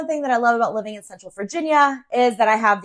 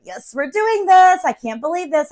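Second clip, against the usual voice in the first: excited; 5 semitones higher, 3 dB louder than usual. Retold or imitated. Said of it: "and I was excited".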